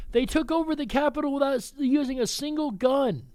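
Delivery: high, quick sarcastic parody; mock version of the left. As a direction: rattle it off as their absurd claim. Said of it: "Also, the terrorist left".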